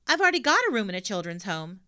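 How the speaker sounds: lightly voiced cheeky girl. Pippi voiced in story.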